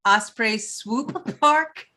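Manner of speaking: laughing through the words; can't keep a straight face. Real, not acted. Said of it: "I couldn't even say it with a straight face".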